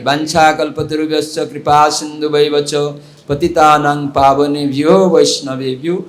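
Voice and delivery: intoned Sanskrit prayer; prayer recitation. Acted.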